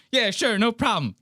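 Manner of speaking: high-pitched mock eagerness; imitated obliging celebrity. Vlogger answering cop like a fan, mock obliging. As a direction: pretend a fan just asked you for a photo. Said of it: "treating it like a fan wants to get a photo".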